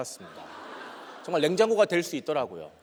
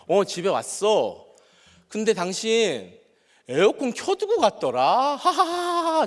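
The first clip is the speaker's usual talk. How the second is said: slow, higher, with strained fake laughs; forced laughter; 4 semitones higher, slower than usual. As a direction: laugh it off through clenched anger. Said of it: "안 지려고 계속 하하하 웃으면서".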